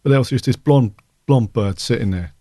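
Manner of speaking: put-on lightly done London accent. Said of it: "I'm doing a London accent there".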